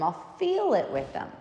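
ordinary talk

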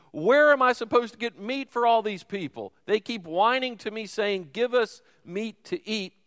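mild exasperated Moses. Retold or imitated. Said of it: "And Moses said to the Lord".

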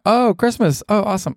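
high, bright mock delight; fake-chipper holiday joy; mock Christmas cheer. Podcaster mimicking his own Christmas excitement, high and gushing. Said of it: "then it's like".

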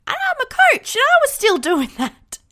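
high, loud, laughing at herself; laughing admission. Real, not acted. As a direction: confess it through a real laugh. Self-mocking admission with laugh.

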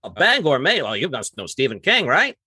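high, eager stranger's question; mock-impressed outsider, lilting up at the end; curious outsider. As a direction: play the stranger who just has to ask. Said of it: "What's the first thing someone asks you?".

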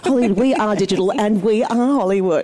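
mock sponsor announcer.

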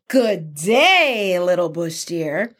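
lightly voiced sly trickster, drawn-out greeting; trickster's greeting. Anansi greets little Bush Deer, lightly acted trickster greeting. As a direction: let the greeting swoop, then fall away.

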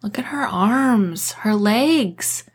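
whispered, aghast; hushed horror. Acted. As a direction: point it out under your breath. Kat horrified at injuries.

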